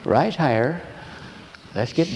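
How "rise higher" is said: kindly. Shown as a demonstration. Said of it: "So in kindness".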